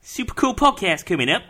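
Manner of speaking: high, loud mock Dutch accent. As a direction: announce it in a hammed-up Dutch accent. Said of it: "That's my Dutch accent".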